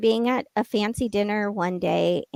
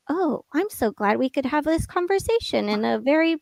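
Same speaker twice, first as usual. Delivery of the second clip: mock-gracious, pitched higher; condescending imitation; 5 semitones higher than usual. Ex-wife quoting her husband's reply to divorce, condescending. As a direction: imitate him being oh so pleased and patronising. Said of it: "that's how he said it".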